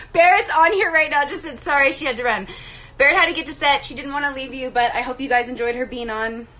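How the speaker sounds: out of breath from running. Real, not acted. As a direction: talk while catching your breath. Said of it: "I'm so out of breath".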